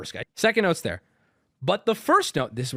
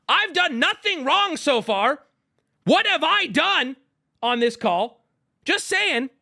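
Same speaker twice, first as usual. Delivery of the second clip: mock smug caller; 11 semitones higher, 4 dB louder than usual. Mocking caller's smug self-defense.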